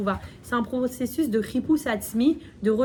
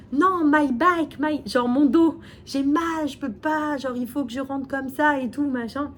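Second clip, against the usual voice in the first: higher, slow pained plea, faking a bad back; pleading excuse; 4 semitones higher than usual. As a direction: whine about his back to dodge bowing. Man fakes back pain at temple.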